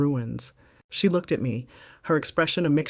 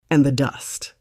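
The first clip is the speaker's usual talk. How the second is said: mock concern; 4 dB louder than usual. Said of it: "my voice a loud, clear, and deeply concerned whisper".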